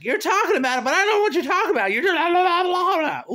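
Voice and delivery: imitating annoyed viewers, fast and high; mock impatient viewers. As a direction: rattle it off like a bored critic. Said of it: "They're like".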